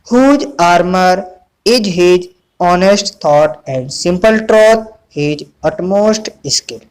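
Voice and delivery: slow, measured poem reading; spaced-out classroom recitation of verse. Acted. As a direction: read the verse out slowly for pupils to follow. Reads the poem aloud.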